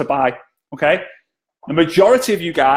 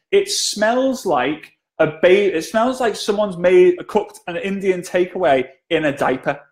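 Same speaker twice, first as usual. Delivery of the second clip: mock disgust; 3 semitones higher, slower than usual. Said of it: "I think she says".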